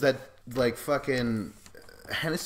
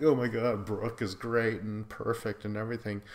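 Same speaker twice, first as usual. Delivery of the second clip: mock gushing. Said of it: "I'm all like".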